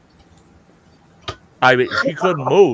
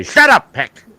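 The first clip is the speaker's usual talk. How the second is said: retold yell; 10 semitones higher, 9 dB louder than usual. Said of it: "I'm bent out of shape".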